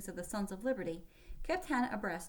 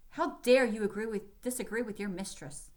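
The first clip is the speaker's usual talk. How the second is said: scowling exclamation; 2 semitones higher, 6 dB louder than usual. Acted. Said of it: "Lieutenant Pratt exclaimed, scowling".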